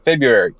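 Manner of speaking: FEBRUARY as "Feb-yu-ry", softly; first R dropped. Shown as a demonstration. Guest teaches the others, February with first R left out. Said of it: "just leave the first R out of it".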